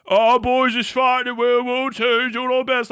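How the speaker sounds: mock stiff-upper-lip bravado; mock plucky British soldier. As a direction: ham up a brave British lad.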